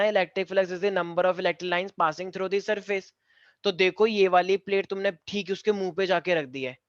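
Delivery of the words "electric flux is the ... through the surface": slow, deliberate dictation of the definition. Shown as a demonstration. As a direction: spell it out slowly for notes. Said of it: "मैंने अभी एक second पहले समझाया ना". (धीरे-धीरे परिभाषा बोलते हुए)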